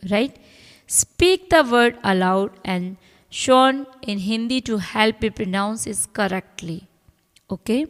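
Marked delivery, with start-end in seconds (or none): 0.9-6.8 reading the rule aloud very slowly. Acted. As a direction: dictate each word slowly to the class. Reads English text slowly. (नियम को बहुत धीरे-धीरे पढ़कर सुनाना)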